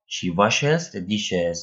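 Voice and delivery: slow, carefully spaced English; slow example read. Shown as a demonstration. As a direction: read it out slowly for learners. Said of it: "teacher reads example sentence".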